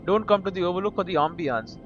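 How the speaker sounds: reading the game's text aloud, evenly; steady reader's voice for the game; story narration. Acted. Streamer reads game text aloud.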